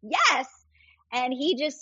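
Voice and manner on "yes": retold eager answer, pitched much higher; gushing yes, voice jumping up high; eager yes to Jesus. Answering Jesus across the booth, eagerly and much higher. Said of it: "I'm like".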